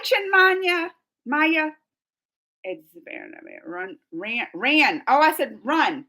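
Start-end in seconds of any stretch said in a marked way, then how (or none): 3.6-5.0 "Run" then "ran" with an open a; run versus ran. Shown as a demonstration. Streamer corrects her own vowel for chat. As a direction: swap the u for a flat a. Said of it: "It's ran".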